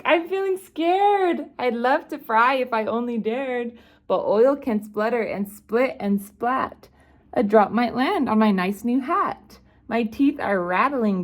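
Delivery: high, fretful cook voice; scared cook. Acted.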